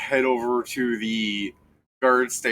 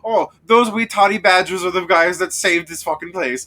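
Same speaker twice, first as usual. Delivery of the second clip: loud, higher Scottish dwarf rant; Scottish accent; 6 semitones higher, 7 dB louder than usual. Acted. Dwarf defends the heroes to the guard, Scottish accent, shouting. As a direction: rant it in a thick Scottish brogue. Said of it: "they're Scottish".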